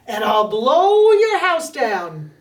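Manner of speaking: booming bad wolf; big wolf threat. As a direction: lean into it like a bully.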